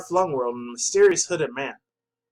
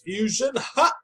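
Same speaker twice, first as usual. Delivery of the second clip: fusion dance shout; 7 semitones higher, slower than usual. Retold or imitated. Fan acts out the cartoon fusion move, ending in a shout. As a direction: act out the cartoon fusion call with a big yell at the end. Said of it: "Like this".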